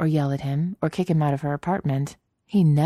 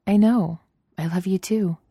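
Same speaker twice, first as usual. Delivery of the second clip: smiling Padme; 5 semitones higher, 3 dB louder than usual. Acted. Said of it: "She smiled".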